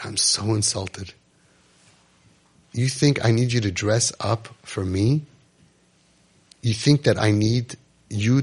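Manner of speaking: slow, soft, heartfelt; slow, sincere tenderness. Retold or imitated. The speaker telling the boy he loves the real him, slow and tender.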